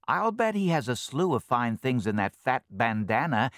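eager little thief, loud and high; greedy ferret. Acted. Greedy ferret eyeing the bandana.

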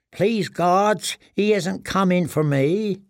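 high, slow plea to the gods; desperate prayer. A narrator's reading. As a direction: pray it high and drawn out, like a frightened prisoner. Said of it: "he prayed".

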